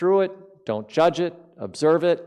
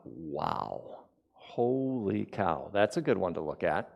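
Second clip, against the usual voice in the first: hushed inner wonder; 6 semitones lower, 9 dB quieter, slower than usual. Retold or imitated. Inner thought, hushed amazement.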